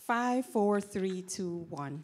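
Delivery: walk the voice down the numbers; descending register scale. Shown as a demonstration. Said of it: "I'm gonna hear you do a scale".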